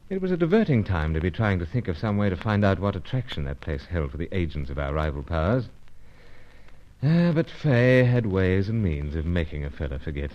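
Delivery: wry first-person narration over music; the hero looking back on his mission; story narration. A narrator's reading.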